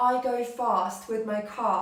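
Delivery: "I go fast with my car" in a mimicked British accent. Shown as a demonstration. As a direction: copy the Brits on "I go fast with my car". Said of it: "I mimicked them".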